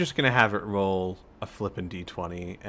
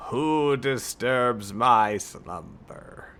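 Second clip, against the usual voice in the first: grinding stone statue; much slower than usual. Acted. GM voices the awakened creature.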